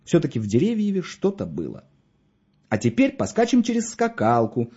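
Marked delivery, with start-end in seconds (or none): 2.7-4.7 put-on high-pitched, gentle order to a child; gentle command. A narrator's reading. Mishka orders the girl to skip rope, gentle command. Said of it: "мягко приказывал он".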